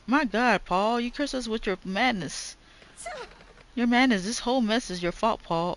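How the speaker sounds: put-on high, dramatic old-woman blame; accusing wife. Wife blaming husband Paul for the mess, in a high dramatic voice. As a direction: cast the curse on him like a tragic matriarch.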